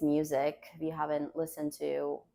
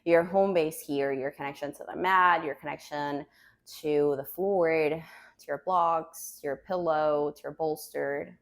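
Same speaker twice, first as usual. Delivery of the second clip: calm grounding exercise. Acted. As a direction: guide them gently to the mat. Yoga teacher guides grounding.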